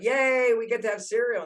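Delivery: high, loud mock kid cheer. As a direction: shout it like excited children. Kids voiced cheering.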